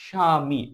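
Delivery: স্বামী said as "shami"; স্বামী with the ব-ফলা left silent. Shown as a demonstration. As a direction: say স্বামী with no b or w sound. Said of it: "এখানে ব এর কোনো উচ্চারণ হয়নি".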